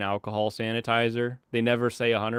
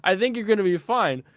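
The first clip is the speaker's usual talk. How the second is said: laughing disbelief; 7 semitones higher, 4 dB louder than usual. Retold or imitated. Answering the hero, laughing.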